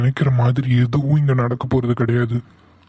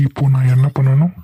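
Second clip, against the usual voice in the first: demanding; 3 semitones lower than usual. Acted. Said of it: "இன்னொரு தடவை சொல்லு".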